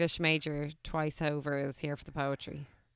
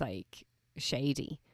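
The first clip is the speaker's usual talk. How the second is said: whispering; 5 semitones lower, 6 dB quieter, much slower than usual. Real, not acted. Calling someone shady.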